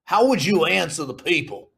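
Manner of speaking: lightly put-on courtroom judge; a hint of pompous judge; judge accent. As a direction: question the witness as a mock judge. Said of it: "What would your judge accent be".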